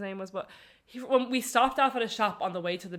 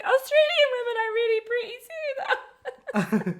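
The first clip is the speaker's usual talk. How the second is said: laughing; 4 dB louder, slower than usual. Retold or imitated. Sister quoted while laughing.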